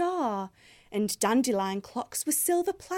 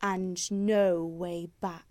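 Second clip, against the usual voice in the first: howling wolves; 4 semitones lower than usual. Acted. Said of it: "they howled".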